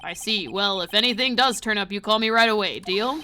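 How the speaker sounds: lightly deepened chief voice; low, controlled authority with a hint of threat; Gant. Police chief ordering an officer to call him, mildly menacing. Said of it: "we'll just do dark and deep, scary voice".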